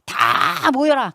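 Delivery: high, long drawn-out call; acted confident summons. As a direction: summon the whole crowd with assurance, stretching the first word. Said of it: "자신 있는 거예요".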